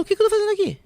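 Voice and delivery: high, startled question; bewildered. Retold or imitated. Freed girl at the church gate asks where she is, bewildered and high. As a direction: sound like she just woke up lost.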